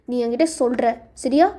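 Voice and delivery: determined man. Acted. Man warns the girl he will find out, insistent. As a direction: lay down terms to her firmly.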